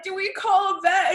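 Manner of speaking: high, loud panicked shout; half-laughing frantic yell. Retold or imitated. Reliving the panic over the cats, high panicked yell. Retold panic, "we're crying.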